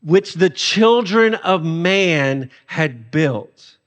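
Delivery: very slow, dry sarcastic read; slow sarcastic scripture line. Acted. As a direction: drag it out with mock solemnity. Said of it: "this is more sarcasm".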